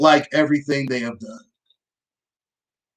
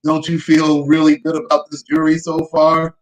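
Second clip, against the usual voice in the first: sarcastic. Real, not acted. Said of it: "you know I'm being sarcastic".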